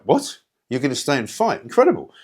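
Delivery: retold disbelief, pitch jumping up on the exclamations; astonished. Host retelling his reaction to the MP staying to fight, astonished. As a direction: echo it back as an incredulous question.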